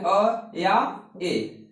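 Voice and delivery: अ short uh, then ए as ay; two ways to say a. Shown as a demonstration. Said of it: "सब पढ़ते हैं".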